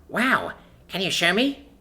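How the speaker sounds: high, slow, pleading wow; eager begging. Acted. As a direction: beg like a thrilled kid. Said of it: "Sonla begs right away".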